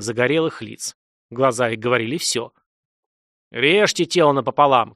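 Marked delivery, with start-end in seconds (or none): 3.5-4.9 shouted. Acted. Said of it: "кричал Всебор".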